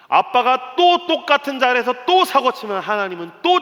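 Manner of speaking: each 또 punched loud and high; stress on 또. Acted. Father admitting repeated mistakes to his son, punching each 또.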